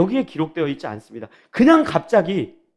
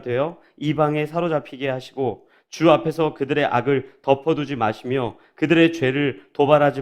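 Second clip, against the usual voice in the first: measured, slightly lowered reading of a prayer; scripture reading; 4 semitones lower than usual. A narrator's reading. Preacher reads Nehemiah's prayer to the congregation, formal reading. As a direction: read the prayer formally and evenly.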